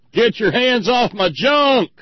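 high, loud, drawn-out mock yell; indignant holler. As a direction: holler it slowly like an outraged patient. Acts out redneck's indignant outburst.

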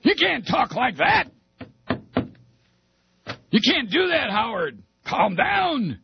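very high, squealing mock fright; mock-alarmed plea. Weasel begging Howard to stop, alarmed. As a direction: plead in a high panicky voice.

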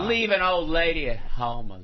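stretched, quavering old lady impression; Ruth Gordon. Old lady left alone at home, Ruth Gordon impression. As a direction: complain like an abandoned old actress. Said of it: "about to do his Ruth Gordon impression".

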